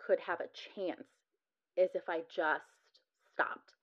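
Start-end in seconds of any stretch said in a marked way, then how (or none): 3.3-3.7 whispered. Real, not acted. Mother recalling giving in for her son, whispered. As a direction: voice drops to a whisper. Ending of painful account.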